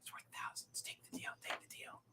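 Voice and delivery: hushed, urgent whisper; barely audible conspiratorial whisper. Acted. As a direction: whisper it secretly into a friend's ear. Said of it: "you kinda whisper into".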